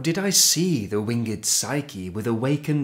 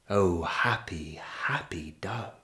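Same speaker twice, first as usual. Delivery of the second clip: breathy hushed whisper, voice dropped away; 5 semitones lower, 6 dB quieter than usual. Acted. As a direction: breathe it like a secret to the dove. Tender whispered apostrophe in poem.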